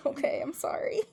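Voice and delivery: sheepish whispered sorry; whispered apology. Retold or imitated. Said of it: "And I'm like".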